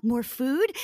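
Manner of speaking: retold hopeful mom, lifting at the end; hopeful question. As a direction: ask it with a rising flicker of hope. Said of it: "My hope. She saw the hope".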